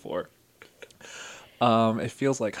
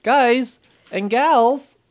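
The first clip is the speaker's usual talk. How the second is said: announcer voice; 11 semitones higher, 9 dB louder, slower than usual. Acted. Host announces guest.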